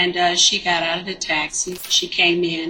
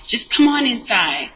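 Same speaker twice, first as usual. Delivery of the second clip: higher-pitched, insistent retold order; aggressive summons; 5 semitones higher, 3 dB louder than usual. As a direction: imitate her pushing him to come in. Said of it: "aggressive with it".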